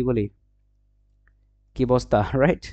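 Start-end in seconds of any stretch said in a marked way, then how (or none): 1.7-2.2 "কি বস্তা" as two quick beats; run-together "কি বস্তা"; contracted form. Shown as a demonstration. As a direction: swallow the vowel of obostha in "কি বস্তা". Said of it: "fast বলি এরকম হয়ে যায়".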